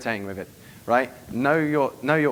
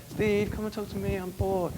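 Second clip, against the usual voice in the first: high, softer mock whine; whining bored girl; 8 semitones higher, 5 dB quieter than usual. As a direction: imitate a girl pestering for attention. Imitated bored girls dragging him.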